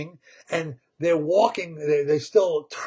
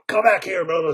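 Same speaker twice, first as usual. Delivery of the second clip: chasing call; 3 semitones higher, 6 dB louder, faster than usual. Acted. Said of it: "and he says".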